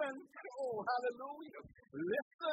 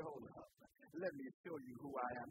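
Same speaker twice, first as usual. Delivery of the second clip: God warning; 8 semitones lower, 6 dB quieter than usual. Acted. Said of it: "God said".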